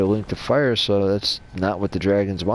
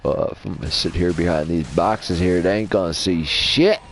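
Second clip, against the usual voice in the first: southern voice. Retold or imitated. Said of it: "Why am I doing a southern voice?".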